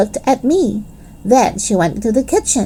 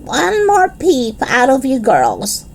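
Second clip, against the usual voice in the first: grouchy; 4 semitones higher than usual. Acted. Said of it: "very grouchy".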